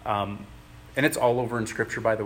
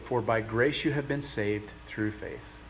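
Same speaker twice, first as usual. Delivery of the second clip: slow scripture reading; 4 dB quieter, slower than usual. Acted. Rereads the verse slowly.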